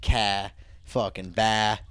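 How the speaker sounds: low "car" and "bah" with open vowels, no R; dropped R's. Shown as a demonstration. Explaining Boston speech, "car" said without its R. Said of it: "You don't, you don't say the R".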